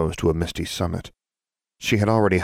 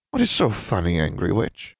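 offended elf; 3 semitones higher than usual. Acted.

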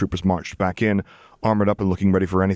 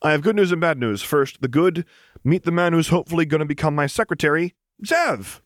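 higher, beaming announcement; enthusiastic; 9 semitones higher than usual. Acted. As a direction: share the news grinning. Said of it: "with exactly as much enthusiasm as he felt beaming wide".

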